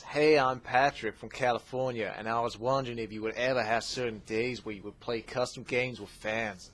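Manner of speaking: put-on Californian surfer accent; half-hearted imitation of a California surfer. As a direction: try a laid-back California surfer voice. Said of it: "going for a bit of a surfer thing".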